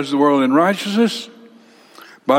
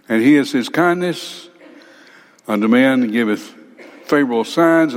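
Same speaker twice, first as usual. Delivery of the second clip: poem recital; 3 semitones higher than usual. Acted. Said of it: "Here's what Erastus said about him".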